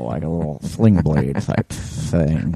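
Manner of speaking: slow, low Sling Blade drawl. Shown as a demonstration. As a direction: drawl it slowly like a simple backwoods man. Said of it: "a little bit of a drawl".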